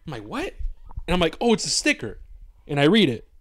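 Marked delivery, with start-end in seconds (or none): 0.2-0.5 mock surprise. Retold confused reaction. 1.4-2.2 mock realization. Retold realization.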